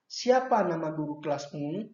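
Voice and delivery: a light rise on "Siapa nama guru kelasmu?", with slight stress on "Siapa"; question intonation. Shown as a demonstration. Teacher showing pupils how "Siapa nama guru kelasmu?" sounds as a question, lightly rising. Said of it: "Itu adalah intonasi pada saat bertanya".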